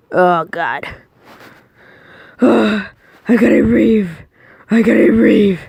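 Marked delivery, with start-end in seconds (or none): 2.4-5.6 louder, frantic for air; mock desperate gasp. Escaping the bathroom, gasping for air. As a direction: gulp the words like you're choking.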